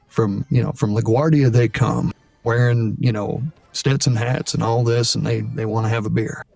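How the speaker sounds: lightly voiced older cowboy. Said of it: "older cowboy".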